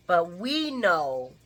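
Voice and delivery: "we know" drawn out slowly, leaning on WE; stress on WE. Real, not acted. Viewers in on the secret, slow knowing stress on "we". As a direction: stretch "we" knowingly against what she doesn't know. Contrasts her ignorance with viewers' knowledge.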